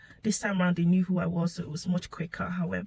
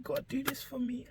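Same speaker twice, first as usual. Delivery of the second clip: higher, soft retold plea; begging prayer; 5 semitones higher, 6 dB quieter than usual. Mother recalling her prayer at the scan, begging. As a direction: plead softly with God, pitched up. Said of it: "praying and begging God".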